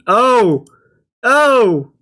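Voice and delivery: high loud startled oh; surprised oh. Real, not acted. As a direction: gasp it out in surprise. Surprise at avatar.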